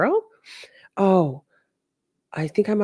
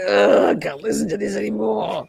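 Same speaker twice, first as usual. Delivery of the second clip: mock exasperated George. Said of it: "George is like".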